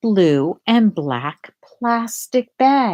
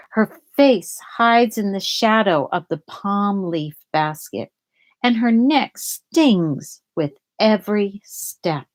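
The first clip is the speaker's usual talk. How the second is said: put-on gentle read-aloud to children; storybook reading voice; story narration. A narrator's reading. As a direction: read it like a picture book for kids. Reads picture book aloud.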